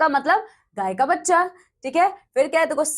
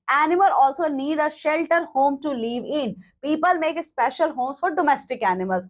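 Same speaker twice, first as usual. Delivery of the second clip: very slow, word by word, like dictating to a class; slow definition reading; much slower than usual. Shown as a demonstration. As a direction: read the definition out slowly and clearly. Teacher reads textbook lines slowly. (बहुत धीमे, शब्द-शब्द पढ़कर समझाना)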